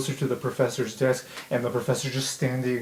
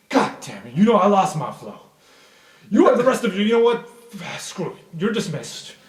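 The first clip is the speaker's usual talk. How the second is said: Professor Sapphire; 5 semitones higher than usual. Acted. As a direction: lose it, then give up with a sigh. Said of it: "you hear Professor Sapphire go".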